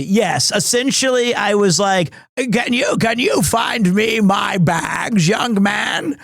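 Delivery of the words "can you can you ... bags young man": lightly voiced old man asking for help with his bags; elderly man. Old traveller asks young man for bags, mock old voice. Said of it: "It's like helping out the elderly".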